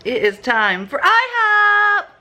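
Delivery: high, loud and slow, like a game-show host; excited announcement. Acted. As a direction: announce it with over-the-top glee. Hosting a vlog, announcing the outing.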